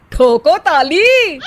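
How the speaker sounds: slow, showy punchline; catchphrase flourish. Acted. Vicky demanding applause from his parents, a showy slow flourish. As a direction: land it like a poet asking for applause. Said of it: "सच में ताली बजा देते हैं।".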